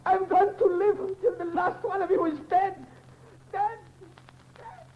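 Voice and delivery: rising, deranged threat; menacing vow. Acted. Covey vowing they will all die, menacing. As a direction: savour each word of it.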